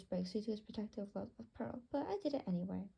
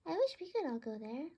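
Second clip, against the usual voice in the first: a mild whine, a bit higher; whined; 4 semitones higher, 4 dB louder than usual. Acted. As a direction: plead lightly like a sulky bird. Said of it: "Bluey whined".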